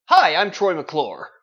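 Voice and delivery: Troy McClure cheesy host intro. Acted. The speaker answering as Phil Hartman character, slow and loud. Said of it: "Quoth that asshole".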